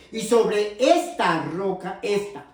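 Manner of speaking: slow quote with "esta" drawn out; deliberate scripture quote, weight on "esta"; stress on "esta". Shown as a demonstration. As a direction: hammer "esta" slowly, then repeat it alone. Preacher stresses the quoted word.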